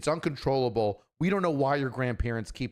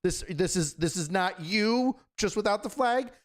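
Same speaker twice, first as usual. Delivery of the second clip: suspicious question; 8 semitones higher than usual. Retold or imitated. Americans radioing Russians, suspicious.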